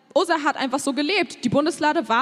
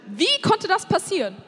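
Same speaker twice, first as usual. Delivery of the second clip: indignant question; 6 semitones higher than usual. Retold or imitated. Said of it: "Und er ist wütend und sagt".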